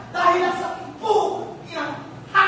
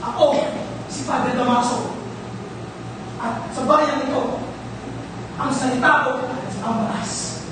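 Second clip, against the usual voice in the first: low, commanding pronouncement; menacing declaration; 5 semitones lower than usual. Acted. Friar declaring his word is law, low menace. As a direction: lay down the law in a lowered voice.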